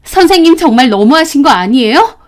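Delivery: angry accusation. Retold or imitated. Confronting the teacher.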